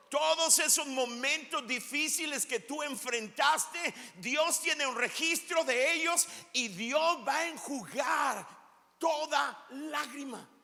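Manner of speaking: preaching climax. Real, not acted.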